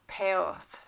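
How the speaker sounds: "Perth" with a long e sliding into th; alternative Norse pronunciation. Shown as a demonstration. Reader showing another difficult form, Norse pronunciation. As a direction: say "Perth" with an e vowel, not English er. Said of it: "It's difficult pronunciation".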